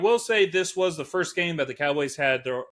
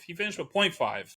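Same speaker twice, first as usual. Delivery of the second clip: ordinary delivery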